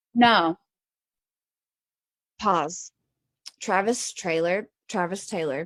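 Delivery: talking with a mouth full of food. Interrupting another speaker's discussion, talking with a mouth full of steak. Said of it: "I have a steak in my mouth".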